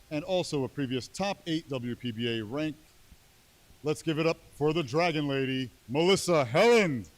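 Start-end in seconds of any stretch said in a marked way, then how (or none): 3.8-7.1 announcer hype. Real, not acted. Announcer introducing player.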